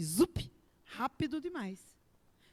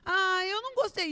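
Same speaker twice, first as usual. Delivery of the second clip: whiny complaint. Retold or imitated. Mocking a whiny believer.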